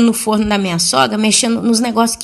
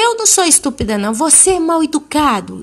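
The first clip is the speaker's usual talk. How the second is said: indignant retort; 6 semitones higher than usual. Retold or imitated. Aunt retorts to shouting child.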